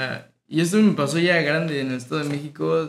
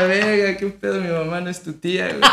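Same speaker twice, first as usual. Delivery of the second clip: mock indignant outburst; 6 semitones higher than usual. Scolding the cousin's friends, a high half-laughing mock outburst. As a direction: throw it out like a shocked kid, laughing.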